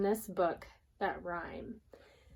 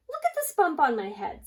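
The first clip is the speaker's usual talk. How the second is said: higher and louder, pleading; insistent hen; 7 semitones higher, 6 dB louder than usual. Acted. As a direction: prove it with the bump. Hen insists, shows bump.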